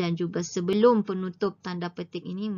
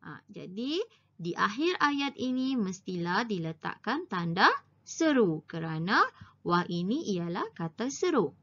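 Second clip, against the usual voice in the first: ordinary talk, nothing marked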